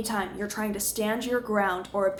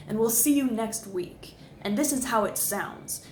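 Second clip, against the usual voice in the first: newsreader sign-off, stepping down to "sounds"; downward inflection. Shown as a demonstration. Coach models the TV and radio sign-off, downward inflection. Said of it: "listen to my pitch".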